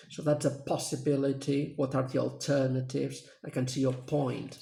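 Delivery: teacher modelling sentence stress; stress on key nouns. Shown as a demonstration. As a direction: lean on "possibility", "alternatives" and "point". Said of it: "the key words are possibility, alternatives, and point".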